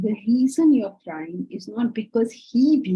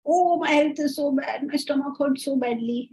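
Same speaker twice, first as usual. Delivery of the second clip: mock complaining; 4 semitones higher than usual. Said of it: "that is usually health related".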